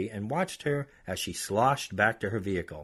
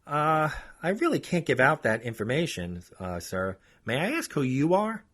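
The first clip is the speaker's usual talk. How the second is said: wary clerk; 6 semitones higher than usual. Retold or imitated. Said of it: "court clerk replies".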